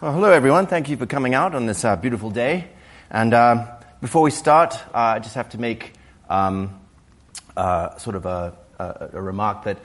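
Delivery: hoarse from a cold. Real, not acted. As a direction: speak through a hoarse, worn voice. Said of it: "please excuse my, my rather hoarse voice".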